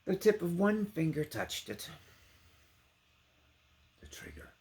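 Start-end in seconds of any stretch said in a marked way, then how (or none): 4.0-4.5 breathed, hushed; whispered suspense. A narrator's reading. Narrator hushing over the trigger, whispered. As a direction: whisper the word.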